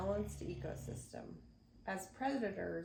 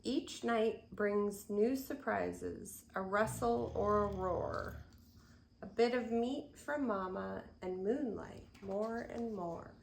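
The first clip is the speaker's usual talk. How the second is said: put-on gentle rhythmic read-aloud for children; storybook reading; 4 dB louder, slower than usual. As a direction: read the rhyme to little ones. Reads picture book aloud.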